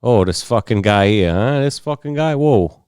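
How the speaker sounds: lightly put-on Brooklyn Italian accent; Italian-sounding Brooklyn accent. Showing friends what Brooklyn Italian sounds like, mock accent. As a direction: do a New York Italian wise guy accent. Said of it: "like, an Italian sounding accent".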